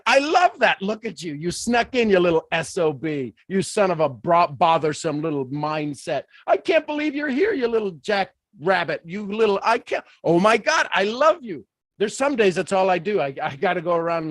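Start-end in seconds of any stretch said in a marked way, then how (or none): 0.0-11.6 playful mock delight. Greeting bad days with mock love.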